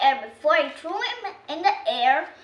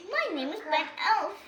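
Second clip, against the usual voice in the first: nervous; 4 semitones higher, faster than usual. Acted. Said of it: "Ben Elf said nervously".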